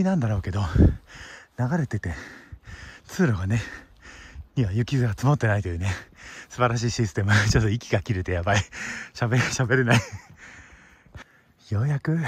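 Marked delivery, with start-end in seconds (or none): 3.1-10.0 panting between words after the climb; breathless from the uphill trudge; out of breath. Real, not acted. (息切れした声)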